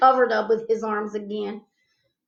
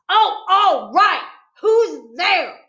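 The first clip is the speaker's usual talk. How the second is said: slow, loud grudging reply; grouchy; 8 semitones higher, 10 dB louder, much slower than usual. A narrator's reading. Boy grouching back at the knock-knock joke. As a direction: give in grudgingly. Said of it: "he grouched".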